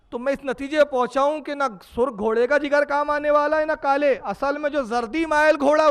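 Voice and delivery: excitable healer owning up to his blunder, pitched high; flustered physician. Acted. Physician confused, changes medicine again.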